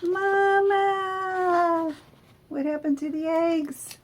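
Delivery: high, squeaky little gosling calling out; baby gosling voice. Acted. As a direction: play a tiny newly hatched chick. Gosling greets bear as mother.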